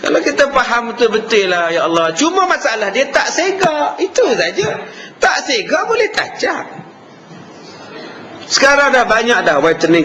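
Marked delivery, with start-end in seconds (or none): 2.2-6.7 laughing. Real, not acted. Preacher laughing at his own joke.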